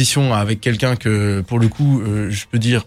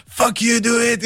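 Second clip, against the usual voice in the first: higher, hammed-up rapper yelling at the crowd; mock yell; 8 semitones higher than usual. Host retells the rapper yelling at the Belgian crowd, mock yell. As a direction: mimic the rapper barking at the crowd, half-hearted. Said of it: "donc il était là".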